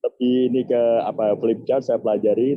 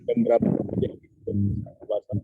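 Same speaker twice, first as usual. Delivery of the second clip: cutting in and out over the connection; choppy connection; 3 dB quieter, faster than usual. Real, not acted. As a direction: voice breaking up on a bad call line. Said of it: "Suaranya putus-putus".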